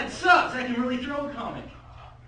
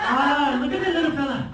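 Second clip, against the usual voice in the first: loud, higher mock-Scottish old man; mock-Scottish accent; 4 semitones higher, 5 dB louder than usual. Grandpa watching yard gnomes, mock-Scottish accent. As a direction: put on a not-quite-Scottish accent for grandpa. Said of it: "it's not Scottish, but I like doing the accent".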